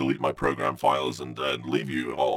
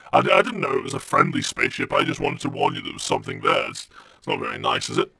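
hurt computer whine; 12 semitones higher than usual. Acted.

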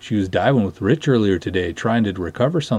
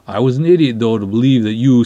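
exasperated; 3 semitones higher, 7 dB louder than usual. Acted. Annoyed at dismissive friend.

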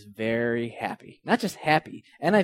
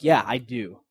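a retold yell, only a little louder; half-shouted defiance; mild mock yell; 5 dB louder, slower than usual. Jonah yelling back at God, mildly mocked. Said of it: "He yells that back at God".

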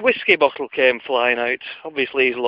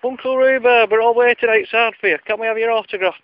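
calling in again; 8 semitones higher than usual. Retold or imitated. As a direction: plead through the door like a child. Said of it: "so I called in again".

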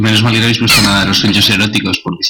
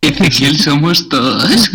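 slow, higher rising slogan; 6 semitones higher, much slower than usual. Pretend. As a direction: announce it like a catchphrase. Slogan said slowly. (voz de eslogan)

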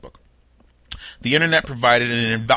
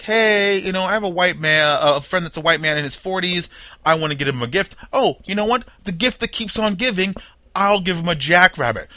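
dude with a gift idea; 6 semitones higher than usual. Pretend. Gift-giver voiced in a joke.

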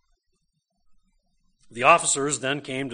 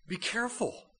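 urgent warning; 9 semitones higher, 5 dB quieter than usual. Retold or imitated. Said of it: "says Nicodemus".

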